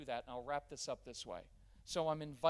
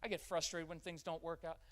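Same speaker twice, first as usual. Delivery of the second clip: validating; 2 semitones higher, 4 dB louder than usual. Shown as a demonstration. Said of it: "It would be better to say".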